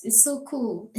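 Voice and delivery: "so" stretched and leaned on; stress on so. Shown as a demonstration. Boasting about her height, she stretches "so" in "so cool". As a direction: lean into "so" in "is so cool". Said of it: "you see the way I'm saying that it's so cool".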